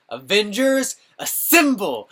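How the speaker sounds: loud, high rallying call; rally the troops; battle cry. Retold or imitated. Captain America calling the Avengers to battle, loud rallying shout. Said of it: "Captain America was like".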